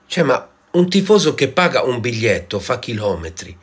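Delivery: loud indignant complaint; outraged rant. Acted. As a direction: rage at the match. Outraged rant about the match.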